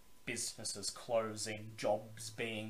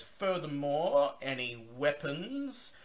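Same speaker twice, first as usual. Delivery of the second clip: higher, louder gruff gatekeeper; gruff male voice; 6 semitones higher, 3 dB louder than usual. Acted. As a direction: bark it like a gruff guard. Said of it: "He says".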